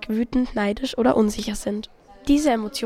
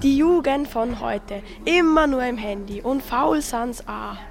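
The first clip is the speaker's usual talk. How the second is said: put-on slow, grumbling old man voice; grumpy old man; slower than usual. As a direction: complain slowly like a crabby elder. Old passenger grumbles about youth on tram.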